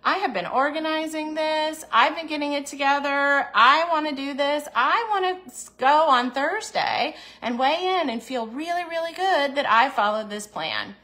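rising resolve, proud of the plan; firm adult self. Retold or imitated. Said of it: "But the adult me says".

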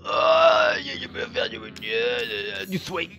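high sung-out glee over a find; chanting the find, thrilled; excited singsong. Real, not acted. Gamer gleefully chanting over found loot.

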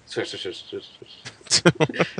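sound effect imitation. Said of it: "I can just hear that sound effect".

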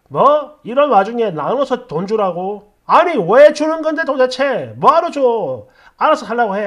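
scoffing at an outrageous money demand; indignant retort. Acted. Acted indignant reply in comments.

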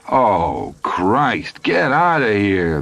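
high, strained cry to get the smelly man out; a desperate sergeant wailing get out; exasperated cry. A narrator's reading. Duty sergeant crying out at the stinking Hap, high and strained. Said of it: "the duty sergeant cried".

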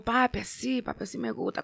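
a light hint of a sexy bedroom voice. Shown as a demonstration. Singer shyly demos her sexy voice for the host, lightly done. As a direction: tease it lightly, half-hearted and coy. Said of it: "como vocecitas sexy".

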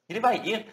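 "vai" leaned on with a rising tune; stressed vai ir. Shown as a demonstration. Teacher stresses "vai" for students. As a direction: stress "vai" to show how odd it sounds. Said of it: "Soa esquisito".

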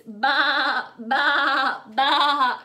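lightly voiced lamb baa. Teacher showing children a lamb voice, lightly bleating. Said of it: "can you do a lamb voice".

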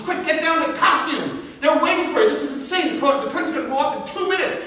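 no time left, move; hurried helper. Retold or imitated. Makeup woman rushes him.

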